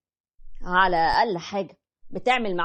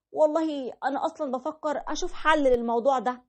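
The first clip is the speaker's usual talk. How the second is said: higher, whiny wife voice; complaining wife; 6 semitones higher than usual. Retold or imitated. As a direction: voice the wife grumbling about the pregnancy. (الزوجة بتشتكي بصوت أعلى)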